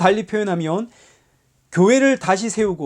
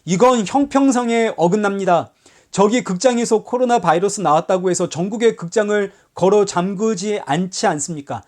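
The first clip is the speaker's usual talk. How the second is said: mock indignant protest; 3 semitones higher than usual. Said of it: "아니면 목소리를 높입니까?".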